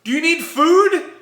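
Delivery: high, loud, slow question; mock concern. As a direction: imitate someone kindly misunderstanding. Manager thinks he is homeless.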